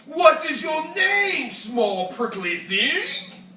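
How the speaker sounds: mocking rhino, slow sneer on prickly thing; unkind question. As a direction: talk down to the small one. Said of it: "asked the rhinoceros unkindly".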